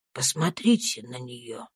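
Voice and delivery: put-on an old servant soothing his master; low gentle comfort. Tom tells his master it is over, low tender comfort.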